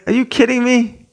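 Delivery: high-pitched, disbelieving retort; imitated incredulous comeback. Incredulous reply to complainer.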